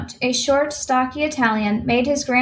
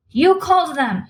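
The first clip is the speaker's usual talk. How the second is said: higher-pitched outraged accusation; furious spluttering; 6 semitones higher, 4 dB louder than usual. A narrator's reading. Furious manager accusing his employee, spluttering. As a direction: splutter it out, voice jumping up. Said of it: "he spluttered at Julia".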